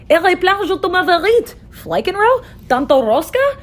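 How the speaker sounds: babbling gibberish. Retold or imitated. Tower builders suddenly cannot understand each other, babbling gibberish. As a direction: trade nonsense phrases in mock foreign tongues. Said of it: "no one knew what anyone else was saying".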